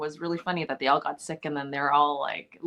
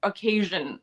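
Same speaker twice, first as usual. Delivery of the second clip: laughing; 5 semitones higher, 4 dB louder, much slower than usual. Real, not acted. Laughing fit while telling story.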